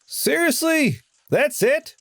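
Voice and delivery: can't believe that's the ending; incredulous. Acted. Student reacts to the lecturer, incredulous.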